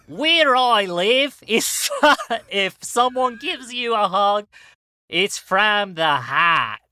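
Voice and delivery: put-on slow, hammy Aussie accent broken by laughs; bad Australian accent drawn out and heartfelt; mock Australian accent. Telling a fan about hugs back home, in a slow mock Australian accent. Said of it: "most offensive Australian accent I can".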